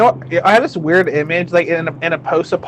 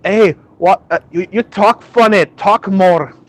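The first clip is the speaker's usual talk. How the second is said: higher, eager imitation of a local; imitated Scottish admirer; 3 semitones higher, 3 dB louder than usual. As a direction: play a local fascinated by a foreign accent. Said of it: "I have this image".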